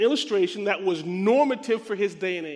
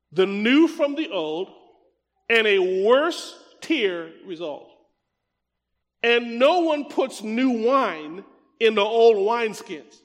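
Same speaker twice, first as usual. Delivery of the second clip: slow, emphatic Bible reading; scripture reading; slower than usual. Acted. Preacher reading Christ's words to the congregation, slow and emphatic. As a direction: read the verse out slowly, weighting key words.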